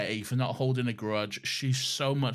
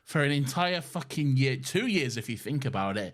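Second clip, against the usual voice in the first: mock bitter Martha; 3 semitones higher, 4 dB louder than usual. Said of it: "to be like".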